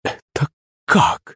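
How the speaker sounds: lost for words at a drinking parrot; bewildered. A narrator's reading. Maid stunned watching the parrot drink, bewildered. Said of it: "растерялась Олина служанка".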